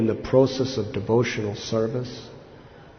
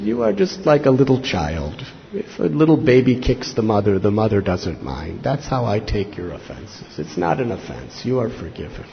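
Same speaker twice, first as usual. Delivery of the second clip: lower, softening reassurance; retold gentle forgiveness; 4 semitones lower than usual. Nityananda comparing Madhai to a little child, retold as gentle reassurance. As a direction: settle down into calm absolution. The Lord tenderly forgives the penitent.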